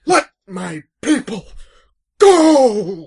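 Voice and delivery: rising to a loud command; Charlton Heston Moses. Retold or imitated. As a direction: proclaim like a biblical prophet. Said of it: "Should we just say".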